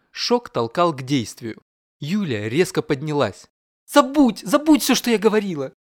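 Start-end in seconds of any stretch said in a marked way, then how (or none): 3.9-5.7 high, loud cry to take it all back; frantic shout. Acted. Yulia shouting at her husband to forget her words, high and loud. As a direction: blurt it out, mortified and loud. Юля in shock jumps up.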